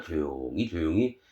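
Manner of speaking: dropped soft and low; quietly. Shown as a demonstration. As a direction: show the hush of praying alone. God says pray quietly.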